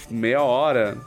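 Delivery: usual speaking voice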